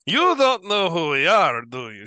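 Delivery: high, loud disbelief; incredulous boast. Acted. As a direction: exclaim it at a high pitch, astonished by the newcomer. Amused boast after laughing at her.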